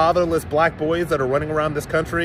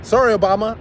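bright, raised mock-sorry opener; mock apology; 5 semitones higher, 3 dB louder than usual. Real, not acted. Black voter telling Obama off, mock apology pitched up. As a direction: toss off a fake apology, pitched higher and a bit louder. Opening defiant message to Obama.

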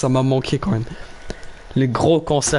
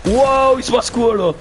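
surprised; 10 semitones higher, 4 dB louder than usual. Real, not acted. Surprised gamer exclaiming.

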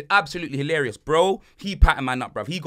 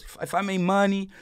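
lightly imitated cool-cat hustler; a hint of the local plug's talk; Ramon. Plug confiding about his wife to tourists, lightly imitated. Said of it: "Like, that's how he says".

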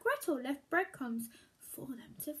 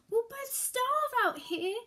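scared; 7 semitones higher, 4 dB louder than usual. Acted. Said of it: "whimpered with fear".

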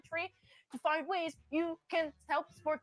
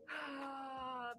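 long, soft sigh; exasperated sigh; 11 dB quieter than usual. Real, not acted. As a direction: let out a long, quiet breath. Exasperated pause in movie review.

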